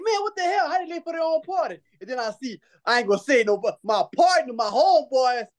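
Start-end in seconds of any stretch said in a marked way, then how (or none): 0.0-1.8 retold exasperation. Retelling his exasperation at lateness.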